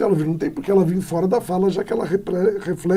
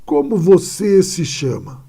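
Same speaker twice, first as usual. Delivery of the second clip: direct question. Shown as a demonstration. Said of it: "o professor fala assim".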